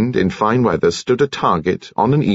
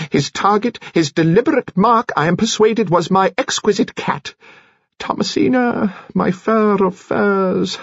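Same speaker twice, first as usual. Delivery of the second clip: put-on high-pitched, theatrical old-fashioned orator; high, mannered storytelling with relish; eccentric Mister Finn; 12 semitones higher than usual. A narrator's reading. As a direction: declaim it grandly, pitched well up. Narrator voices eccentric Mister Finn.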